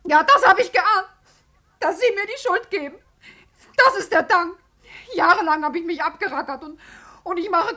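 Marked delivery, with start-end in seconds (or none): 0.0-4.5 loud, wounded indignation; hurt and defiant protest; indignant outburst. Acted. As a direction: flare up at the accuser in self-defence. Vera rebuts accusation of fraud.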